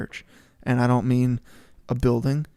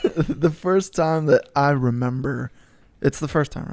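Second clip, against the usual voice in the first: mock New Zealand accent. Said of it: "New Zealand accent".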